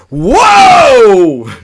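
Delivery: loud, high laughing whoa. Real, not acted. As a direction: burst out laughing in shock. Laughing reaction to the scene.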